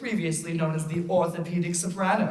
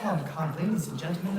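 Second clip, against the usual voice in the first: much softer, hushed appeal; soft coaxing; 6 dB quieter than usual. Acted. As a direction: coax them quietly. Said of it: "let's do be a little serious".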